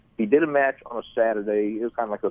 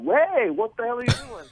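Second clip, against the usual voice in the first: much higher, retelling a startled "what the hell"; mock indignant protest. Trainer to the rookie who stomped his chest, high mock indignant protest. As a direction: squeal it out like you just got stomped mid-match. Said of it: "And I looked up like".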